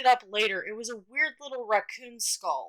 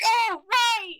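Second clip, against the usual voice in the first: sudden realization; 10 semitones higher, 3 dB louder than usual. Retold or imitated. Kid realizes to throw corn.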